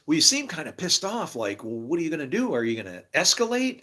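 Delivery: a teasing buddy poking at his anger; imitating Johnny. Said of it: "he goes".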